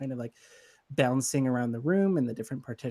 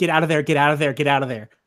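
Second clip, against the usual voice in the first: very loud, excited, rushed yelling; 3 semitones higher, 11 dB louder than usual. Voicing a character who warns an agent over the radio: yelling into a radio. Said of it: "she just starts yelling into the, um, radio".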